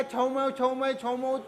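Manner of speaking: lightly put-on Chinese gibberish; mock Chinese. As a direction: imitate Chinese with nonsense syllables. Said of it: "और उसका".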